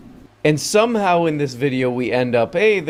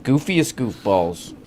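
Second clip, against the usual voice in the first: mock grand proclamation; 4 semitones higher, 7 dB louder than usual. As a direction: announce it like a ceremony, giggling.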